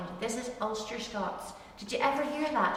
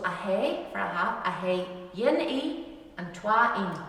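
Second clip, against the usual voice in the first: Ulster Scots phrase. Shown as a demonstration. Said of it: "Means I have one eye and two eyes".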